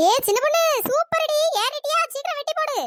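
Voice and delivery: high, loud excited calling up; excited cheering. Acted. Woman cheers the girl at the treetop, excited. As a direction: cheer her on up the tree.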